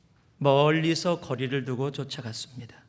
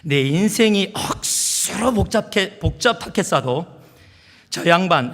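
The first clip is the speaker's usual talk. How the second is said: amateur Gyeongsang accent, pitched up; Gyeongsang dialect; 5 semitones higher, 5 dB louder, slower than usual. Shown as a demonstration. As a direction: put on a hearty Gyeongsang dialect. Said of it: "이 말씀을 경상도 버전으로".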